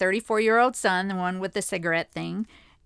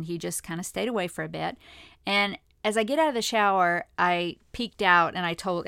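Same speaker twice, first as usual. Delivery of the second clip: ordinary delivery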